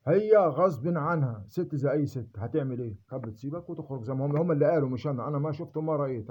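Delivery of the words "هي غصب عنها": very slow, with a long falling stress on هي; pleading emphasis. Real, not acted. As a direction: stretch out هي غصب عنها, leaning hard on هي. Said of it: "defending his ex-wife". (ببطء شديد مع ضغط على هي)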